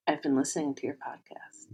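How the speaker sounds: softly imitating a cute, sheepish little boy; sheepish quiet voice. Retelling a friend's admission about the podcast, sheepish and quiet. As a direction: drop to a small, shy confession. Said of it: "in kind of this cute little boy, sheepish, quiet voice".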